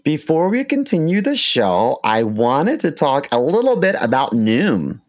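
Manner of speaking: ad read. Acted. Host starts sponsor ad read.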